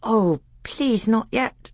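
high, pleading pupil voice; young pupil pleading. A narrator's reading. Caspian begging to put off grammar, pleading. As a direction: beg the tutor in a high young voice. Pupil begs to continue history.

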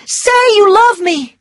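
high, loud pleading cry; desperate demand. A narrator's reading. Scarlett pleading Ashley to love her, loud and high.

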